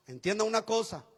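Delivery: a hint of the mentor's firm manly voice; imitating manly mentor. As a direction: boom it lightly like a manly old mentor. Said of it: "hablaba muy varonilmente".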